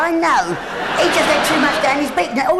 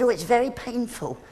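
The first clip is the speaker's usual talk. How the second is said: posh budgie; 6 dB quieter than usual. Retold or imitated. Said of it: "'cause he's quite well spoken".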